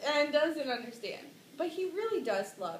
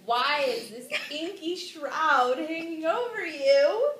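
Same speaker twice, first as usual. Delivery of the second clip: a hint of theatrical mom, raised and loud; lightly voiced mother; 4 semitones higher, 5 dB louder than usual. Mom questioning Hamlet, lightly hammed-up concern. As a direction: put on a slightly higher questioning mother. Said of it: "She's like".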